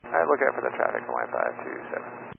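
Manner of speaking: low, quiet radio reply; over a cockpit radio; pilot cockpit headset. Real, not acted. Pilot acknowledging traffic.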